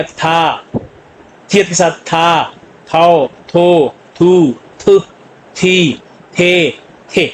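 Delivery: "था, थाओ, थो" with air released after each थ; slow syllable drill, each थ aspirated; aspirated sound. Shown as a demonstration. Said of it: "aspirated के साथ". ("था, थाओ, थो" में थ महाप्राण, अलग-अलग)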